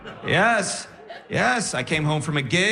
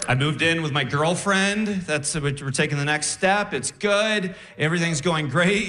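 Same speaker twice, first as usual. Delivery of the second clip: ordinary talk, nothing marked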